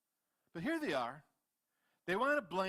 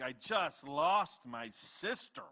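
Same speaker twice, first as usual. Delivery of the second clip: exasperated plea; slower than usual. Acted. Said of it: "and Moses is like".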